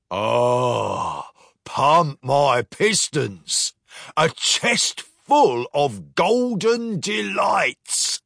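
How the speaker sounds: slow, delighted gloating; gleeful. Acted. Captain gloats over the chest of gold. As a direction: savour the treasure greedily.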